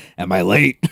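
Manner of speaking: raspy voice like a heavy chain smoker. Recalling the voice used for Susie in a previous playthrough, raspy Susie voice. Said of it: "I made her sound like a chain smoker in the previous uh in the previous playthrough. I was I think I was sounding like".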